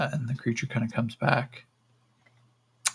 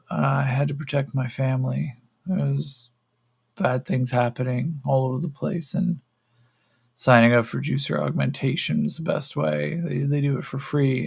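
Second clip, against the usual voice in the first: slightly raised voice, explaining himself; lightly voiced captive, justifying his choice; earnest captive; 4 semitones higher than usual. Yakim explains himself to the creature, lightly voiced earnest captive.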